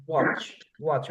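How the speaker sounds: ওয়াচ with the final ch fully sounded; careful pronunciation. Shown as a demonstration. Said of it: "কি বলবো আমরা".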